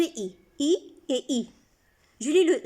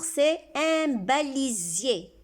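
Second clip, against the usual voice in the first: slow, careful dictation; much slower than usual. Shown as a demonstration. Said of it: "le mot du jour".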